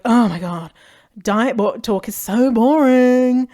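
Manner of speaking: mock-bored joking, drawn out; jokey. Shown as a demonstration. Joking to friends about diet talk, mock bored. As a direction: roll your eyes at diet talk. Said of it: "make a joke out of it".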